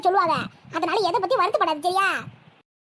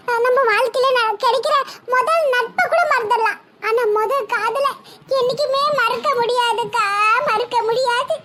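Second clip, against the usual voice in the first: slow, drawn-out musing on lost love; wistful; 3 semitones higher, slower than usual. Acted. Saroja tells her sister about first love, slow and wistful. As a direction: linger over every word, heavy-hearted.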